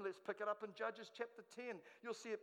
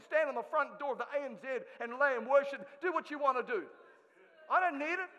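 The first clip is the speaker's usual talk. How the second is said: loud, scornful God, much louder; sarcastic rebuke; 3 semitones higher, 8 dB louder than usual. Acted. God sarcastically rebuking the people for their idols, loud scorn. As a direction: hammer the sarcasm home at full voice.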